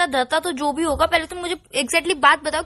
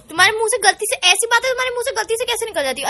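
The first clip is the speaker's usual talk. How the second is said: incredulous; 5 semitones higher than usual. Real, not acted. Girlfriend confronts him in disbelief.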